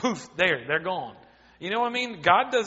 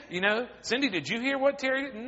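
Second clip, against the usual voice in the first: mock gossip; 4 semitones higher than usual. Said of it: "go to everybody else and say".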